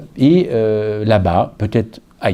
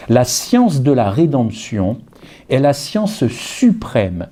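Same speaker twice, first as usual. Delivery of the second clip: slow, weighty reading of a quotation; solemn quote reading; slower than usual. Shown as a demonstration. Preacher reading a treasured quotation to the congregation, slow and solemn. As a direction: read it slowly, savouring each word. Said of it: "lisez-la plutôt".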